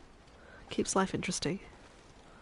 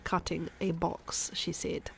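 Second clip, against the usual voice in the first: Chef Maria. Acted. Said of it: "I'm halfway through my accent redeem".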